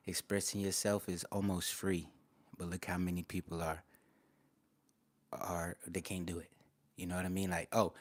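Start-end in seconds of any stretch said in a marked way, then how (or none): 5.3-6.5 whispered aside. Real, not acted. To the chat, whispering an aside. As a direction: drop to a whisper. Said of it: "whispered aside".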